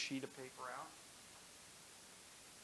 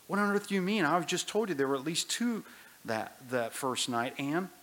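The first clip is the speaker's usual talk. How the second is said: put-on much louder, higher, indignant boy; boy Shasta, indignant; 5 semitones higher, 10 dB louder than usual. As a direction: protest as if the voice got it wrong. Shasta argues with the voice.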